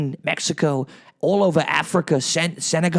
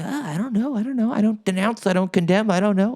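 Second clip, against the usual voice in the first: evasive; 5 semitones higher than usual. Retold or imitated. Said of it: "I'll say".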